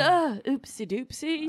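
high, slow silly voice; mock careless husband; dopey Alan Rickman. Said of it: "he's just like".

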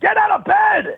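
very high, hammed-up wake-up call; pestering sun. California sun waking the comic, high pestering voice. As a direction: nag a sleeper from way up high.

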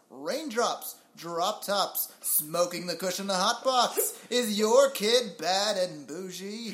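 put-on old radio announcer reading rap lyrics; slow, lightly voiced vintage radio announcer; fifties announcer voice. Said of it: "a fifties announcer voice".

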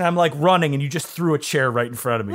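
laughing through a fast, incredulous line. Real, not acted. Laughing at the host's vinyl question. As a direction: tell it while cracking up at the question.

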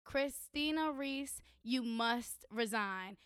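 low, slow and soft, reading out the sign; quiet retelling. Retold or imitated. Telling a friend about the protest sign, quiet and slow. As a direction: hush it out, word by word.

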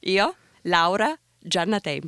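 Italian. Shown as a demonstration. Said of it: "say your name one more time and Italian".

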